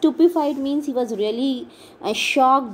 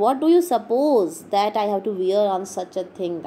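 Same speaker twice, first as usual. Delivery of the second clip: impatient; faster than usual. Acted. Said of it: "declared impatiently".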